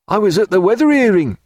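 put-on high, loud old salt; high-pitched, emphatic sailor; sailor's character voice. A narrator's reading. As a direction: tell it as an eager seaman. Sailor Plum's voice in narration.

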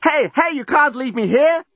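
high-pitched outraged protest; incensed indignation. A narrator's reading. Tied-up captive sees journalist leaving, incensed protest. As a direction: call after him in indignant alarm. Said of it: "gone from abject terror to incensed indignation".

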